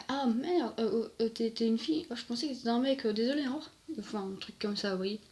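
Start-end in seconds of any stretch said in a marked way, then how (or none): 0.1-3.7 stammering, slightly raised apology; mock-embarrassed passer-by backing out; flustered stranger. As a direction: act out an awkward realisation, tripping over words. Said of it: "une fois qu'on parle".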